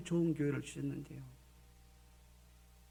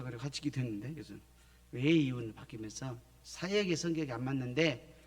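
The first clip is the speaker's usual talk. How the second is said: ordinary delivery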